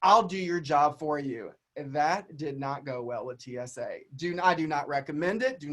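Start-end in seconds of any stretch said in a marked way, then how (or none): 0.0-1.5 retold snap. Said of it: "I said".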